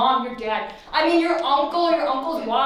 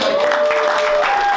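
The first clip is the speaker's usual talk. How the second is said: squeaky, slow cute goodbye; playful high-pitched farewell; high sign-off; 8 dB louder than usual. Real, not acted. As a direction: end sweetly, high and drawn out. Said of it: "sign-off".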